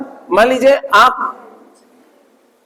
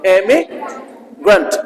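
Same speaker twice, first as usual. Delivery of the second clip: इमिग्रेंट said slowly after the prompt बोलो; slow drill; 3 semitones lower, much slower than usual. Shown as a demonstration. Teacher asks the class to repeat, slow model. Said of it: "बोला कैसे जा रहा है".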